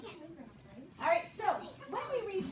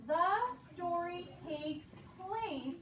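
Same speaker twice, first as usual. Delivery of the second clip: put-on broad singsong kids theatre; 3 semitones higher, slower than usual. Shown as a demonstration. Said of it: "Let me model for you first".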